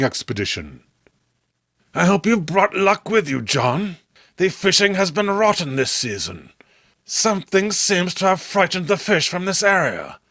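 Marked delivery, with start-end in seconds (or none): 1.9-10.2 put-on a lightly raised, easy voice for the old friend; a touch higher, friendly and chatty; Robert's voice. Robert to John about the poor fishing, lightly higher voice.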